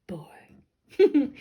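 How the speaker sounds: unvoiced, hushed; whispered boring. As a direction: whisper the words. Whispered repeat.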